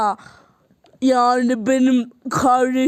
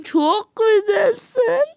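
gushing compliment; 8 semitones higher, much slower than usual. Acted. Overjoyed gushing at the girl.

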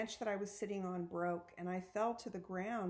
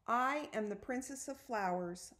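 announced; 3 semitones higher than usual. A narrator's reading. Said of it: "I announced".

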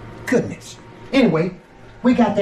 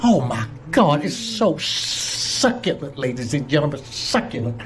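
savoring the taste; 4 semitones lower than usual. Real, not acted. Savoring the food.

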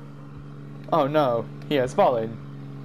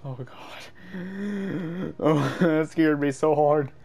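laughing after a scare; much slower than usual. Real, not acted.

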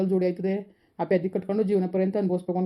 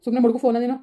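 angry outburst; 3 semitones higher, 4 dB louder than usual. Acted. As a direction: tell her off, fed up and rushing. Son snaps at mother over marriage. (ಕೋಪದಿಂದ ಅಮ್ಮನ ಮೇಲೆ ಜೋರಾಗಿ ರೇಗುವುದು)

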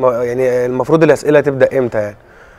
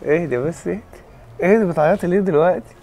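soothing; 4 semitones higher, 5 dB quieter than usual. Real, not acted. Man calms his crying partner.

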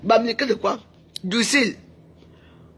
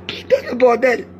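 loud, exclaimed swear; loud cursing; 3 semitones higher, 5 dB louder than usual. Real, not acted. Streamer cursing amid a rant, loud exclamation. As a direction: burst out with the curse. Exclaims after laughing at rival.

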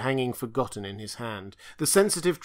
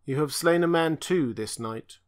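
high, strained inhuman creature voice; a tortured monster pleading in one unchanging tone; strange stammering voice; 4 semitones higher, 4 dB louder than usual. Acted. Creature speaks to Conan.

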